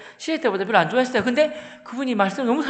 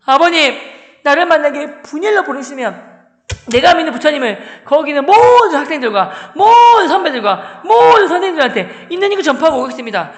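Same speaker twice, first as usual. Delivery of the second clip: loud, higher-pitched declaration to a father; emphatic pleading pledge; 5 semitones higher, 9 dB louder than usual. Retold or imitated. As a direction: proclaim it to win father over. Acted earnest plea to his father. (아버지를 설득하려 우렁차게 다짐)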